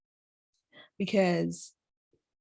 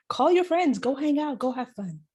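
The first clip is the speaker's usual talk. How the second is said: light cheerleader encouragement; cheerleader nudge; 5 semitones higher than usual. Pretend. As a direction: push a friend out the door cheerfully. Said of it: "She's the one like".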